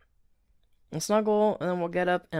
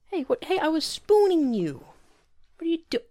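higher, louder startled protest; surprised; 13 semitones higher, 8 dB louder than usual. Acted. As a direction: react to being cut off. Surprised at being interrupted.

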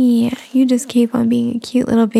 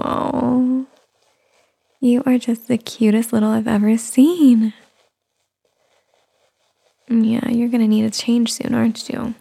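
tired new mother. Acted. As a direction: coo gently to a little one. Soft mommy roleplay throughout.

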